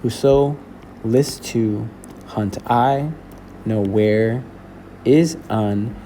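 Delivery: poem read in pairs of syllables, pausing after each; measured teacher's scansion, broken by short pauses; scanned iambic reading. Shown as a demonstration. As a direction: scan "Whoso / list to / hunt I" two syllables at a time. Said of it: "then he kinda gets back to it".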